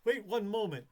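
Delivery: flat robotic wait one moment. Retold or imitated. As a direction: talk like a machine. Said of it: "make her voice sound like a robot voice".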